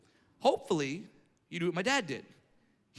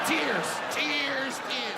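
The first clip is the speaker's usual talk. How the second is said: higher, hammed-up blubbering; mock sobbing; 5 semitones higher, much slower than usual. Bullied kid breaking down in class, mock sobbing. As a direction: imitate the kid bawling, overdone.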